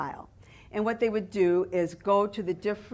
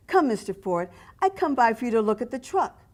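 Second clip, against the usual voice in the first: put-on a light Italian accent for the fruit seller; lightly voiced Italian accent, friendly sales pitch; 3 semitones higher, 3 dB louder than usual. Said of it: "He spoke with a thick Italian accent".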